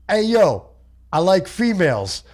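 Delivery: Dice Man voice. Retold or imitated. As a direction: ham up a cocky Dice Man.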